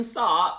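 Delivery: "start" with the final T dropped, British style; mock-British "start", its ending T left off. Shown as a demonstration. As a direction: say "start" without sounding the last T. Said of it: "how you say start without the T".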